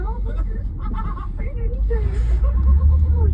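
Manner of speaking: very high, drawn-out British caricature; hammed-up, high British voice; mock British accent. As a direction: gush like a caricatured Brit. Mimics British friends of caller.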